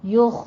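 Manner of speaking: یخ ending on a heavy, held خ with no bounce; یخ with a full-mouthed scraping خ; خ stopped, full. Shown as a demonstration. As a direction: stop firmly on the خ of یخ. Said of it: "خوا پر بھی اور stop کرنا ہے".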